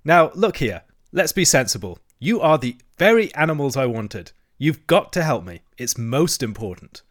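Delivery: insistent, lively Toad voice; eager Toad. Acted. Toad pleading with his friends for help, insistent.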